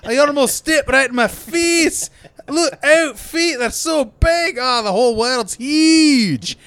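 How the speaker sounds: very high, loud squeaky little-man voice; tiny Colin Farrell. Pretend. Mocking Colin Farrell as a tiny man, high squeaky voice. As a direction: play a tiny man dwarfed by everything. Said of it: "Look at your feet".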